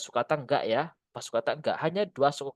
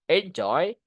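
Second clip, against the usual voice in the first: "Enjoy" with a weighted, rising "joy"; stress on second syllable; 2 semitones higher than usual. Shown as a demonstration. Teacher introducing a verb, stress on "joy" in "Enjoy". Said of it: "Penekannya di joy-nya".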